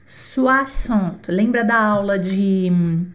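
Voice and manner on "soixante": Soixante with X sounding like S, swa-sant; French soixante. Shown as a demonstration. Teacher repeating Soixante as a model for students. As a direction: say Soixante clearly, X as S. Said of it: "Repita comigo".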